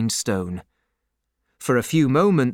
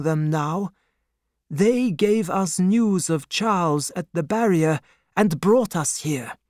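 higher-pitched, steady assurance; calm reassurance; 7 semitones higher than usual. A narrator's reading. Doctor tells banker of his standing, calmly assuring. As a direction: explain confidently that all is safe. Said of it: "the doctor answered calmly".

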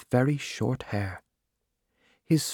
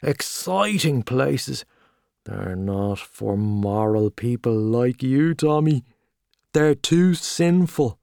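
hearty Gallagher; 2 semitones higher, 3 dB louder than usual. Acted. Gallagher greeting old friend Tommy in the pub, loud and hearty. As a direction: boom out the welcome like a showy journalist.

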